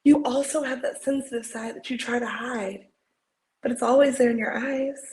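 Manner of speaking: earnest pep talk, acted with feeling; heartfelt dramatic encouragement; audition monologue. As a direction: insist on their worth, building from gentle to emphatic.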